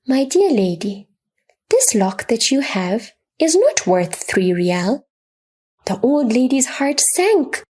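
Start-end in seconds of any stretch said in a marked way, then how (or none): 0.1-5.0 gentle. Acted. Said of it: "he spoke gently".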